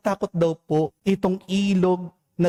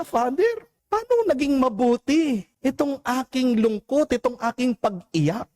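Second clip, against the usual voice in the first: higher, rising questions of a confused father; puzzled father asking; 9 semitones higher than usual. Retold or imitated. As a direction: ask the priest in disbelief, voice lifted up. (nagtatakang tanong ng ama sa pari, mataas ang tinig)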